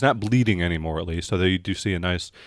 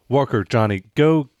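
raised voice sending people off; calling out orders; 3 semitones higher, 5 dB louder than usual. Acted. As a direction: call over to two guys to fetch something.

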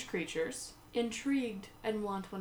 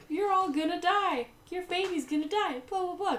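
put-on possessed old lady; 11 semitones higher, 4 dB louder than usual. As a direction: croak out the prophecy like a possessed crone. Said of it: "And the lady is like".

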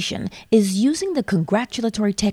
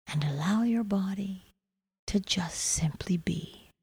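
whispering; 6 dB quieter than usual. Acted. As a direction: breathe the words out gently. Deepening the meditation.

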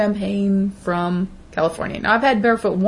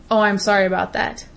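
sincere apology. Shown as a demonstration. When she truly apologizes to someone, sincere and measured. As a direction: say it like you truly mean it. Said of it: "there is no doubt in their mind that I mean it".

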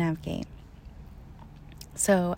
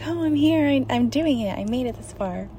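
excited; 5 semitones higher than usual. Retold or imitated. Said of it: "a rush again 'cause I'm excited".

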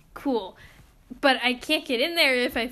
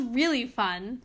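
understated sarcasm; dryly sarcastic, at an everyday pace; 4 dB quieter, slower than usual. Real, not acted. Complaining about the upper level test, dry sarcasm. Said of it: "That was sarcasm".

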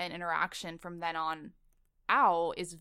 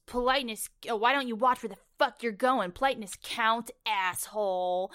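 slightly raised mock tough-guy delivery; surf Nazi imitation; 3 semitones higher, 5 dB louder than usual. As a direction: quote a hostile surfer, a touch louder. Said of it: "surf Nazi guy, he goes".

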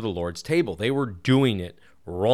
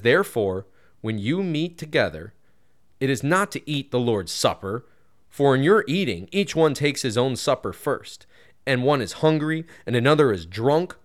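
emphatic Bible reading, often raised; scripture reading; 3 semitones higher than usual. Acted. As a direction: read the verses out with emphasis. Reads the Bible passage aloud.

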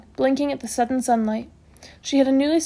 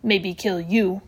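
calm Little Bear; 3 semitones lower, much slower than usual. A narrator's reading. Patient warning the matron, slow and calm. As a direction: threaten calmly, word by word. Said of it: "said Little Bear calmly".

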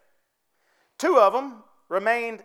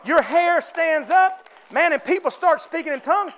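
excited shout; 3 semitones higher than usual. Real, not acted. Preacher builds excitement.

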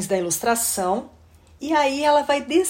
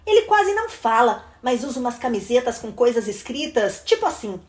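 put-on animated children's story reading; expressive read-aloud for children; story narration. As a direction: read the picture book with lively rise and fall.

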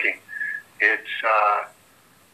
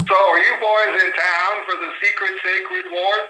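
higher-pitched voiced reading of a comic character; 6 semitones higher than usual. Host reading the splash page dialogue aloud, character voice pitched higher.

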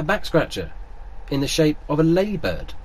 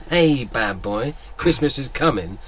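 seductive pigs in blankets; 3 semitones lower, 3 dB quieter, slower than usual. Pretend. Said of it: "walk through my door and go".

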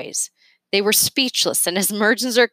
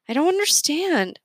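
sniffing; 10 semitones higher than usual. A narrator's reading. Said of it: "Leo sniffed".

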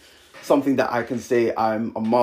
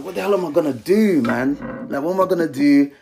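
higher-pitched, mildly frantic questioning; retold panic; 4 semitones higher than usual. Young dad retelling his night-time panic about raising a kid, mildly distraught. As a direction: replay the worried rush of questions. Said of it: "I just burst into tears".

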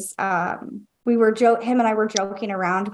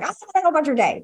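teasing joke; 6 semitones higher, much faster than usual. Retold or imitated. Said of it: "like, joking around".

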